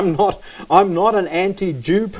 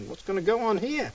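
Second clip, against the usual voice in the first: worried thought; 3 semitones higher, 10 dB quieter, faster than usual. Retold or imitated. Recalls worried thought in dark room.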